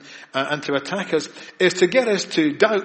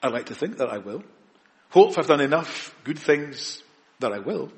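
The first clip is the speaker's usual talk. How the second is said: doubtful religious person. Acted. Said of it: "The religious person says".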